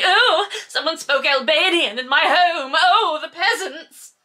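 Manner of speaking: laughing parody of a snob appalled by Albanian; mocking Maxim. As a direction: sneer at the peasants, hammed up. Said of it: "because he's like".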